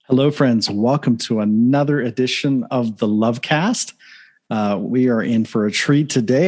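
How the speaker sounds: upbeat show opening; podcast host intro. Acted. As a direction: open the show like a radio host.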